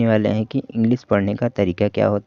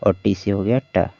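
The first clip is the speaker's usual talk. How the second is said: slow blending. Shown as a demonstration. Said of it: "ए की मात्रा इस पे लगा देंगे".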